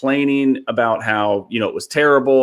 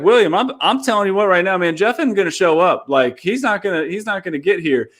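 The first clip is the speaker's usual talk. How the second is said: worried insisting; 6 semitones higher than usual. Retold or imitated. Retelling panic before show.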